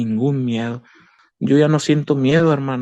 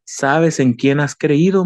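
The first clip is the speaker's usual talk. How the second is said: God's rebuke; 4 dB louder, slower than usual. Retold or imitated. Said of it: "Me vuelve, me vuelve a decir".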